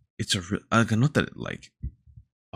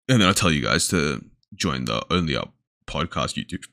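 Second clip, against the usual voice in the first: talking through hiccups; hiccuping; 2 semitones lower than usual. Real, not acted. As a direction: hiccup between the words. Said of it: "Sorry, I'm hiccuping".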